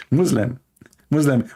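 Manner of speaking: "Muslim" with a z sound; mispronunciation shown. Shown as a demonstration. Showing the word that means dark, "Muslim" said with a z. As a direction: say "Muslim" as "Muzlim". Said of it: "which means dark".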